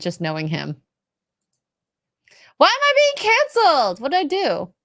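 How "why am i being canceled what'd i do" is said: high whiny voice, pitched up; whiny mock complaint. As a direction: whine it like a wronged customer. Mock whiny Gary quote.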